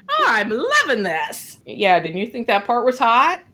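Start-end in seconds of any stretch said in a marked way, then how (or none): 0.1-1.6 higher, laughing oh I'm loving this; gleeful delight. Retold or imitated. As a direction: relish it through a laugh. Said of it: "I'm like".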